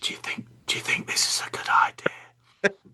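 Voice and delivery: hushed, breathy whisper under the breath. Retelling an episode scene where Cutler kneels beside Phlox: Cutler whispering. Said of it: "she's whispering".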